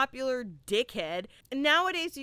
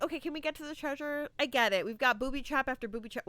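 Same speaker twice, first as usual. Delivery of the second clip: impatient; 2 semitones higher, 3 dB quieter, much faster than usual. Retold or imitated. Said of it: "I was just like".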